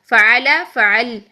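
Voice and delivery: فعل said twice slowly, last لام left bare; slow stopped demo. Shown as a demonstration. Teacher slowly modelling waqf on فعل for students. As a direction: draw out فعل and stop on the لام. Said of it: "اس کی حرکت ختم کر دی".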